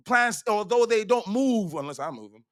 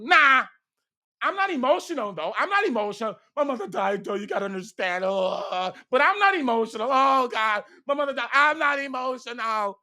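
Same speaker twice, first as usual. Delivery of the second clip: raised, wailing mock insistence; mock emotional denial; 3 semitones higher than usual. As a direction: imitate someone falling apart while denying it. Mimics emotional person denying being emotional.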